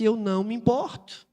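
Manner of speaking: calm, untroubled retort; tranquil reply. Acted. Maria Madalena replying to the nervous centurion, tranquil. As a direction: stay lightly unbothered, acting her calm. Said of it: "Ela tava tranquila, tranquila".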